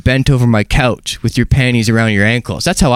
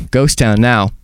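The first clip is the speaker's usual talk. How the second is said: deadpan; 4 semitones lower, slower than usual. Retold or imitated.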